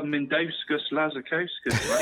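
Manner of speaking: slow, drawn-out foreign name; careful name. Shown as a demonstration. Podcast guest slowly pronouncing a player's long name, drawn out. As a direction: spell out Mindauskis Lazarkauskas syllable by syllable. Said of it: "Just say it one more time".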